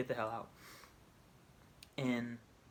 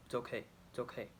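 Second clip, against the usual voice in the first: soothing; 6 dB quieter than usual. Retold or imitated. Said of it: "calms it down".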